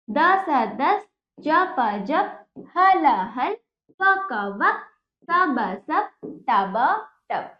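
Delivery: slow, drawn-out syllables, then the joined word; sing-song sound-it-out chant for pupils; reading drill. Shown as a demonstration. (धीमे, खींचकर पढ़ाने का लहजा)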